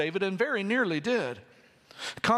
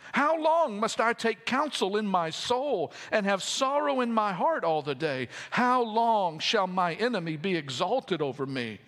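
impassioned scripture reading; 2 semitones higher than usual. Acted. Reads lament psalm aloud.

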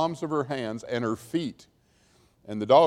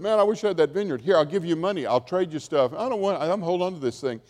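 lightly acted, higher-pitched wheedling; mock haggling in a raised voice; pleading Ahab; 4 semitones higher, faster than usual. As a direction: imitate an eager bargainer, pitched up. Acts out Ahab coveting vineyard.

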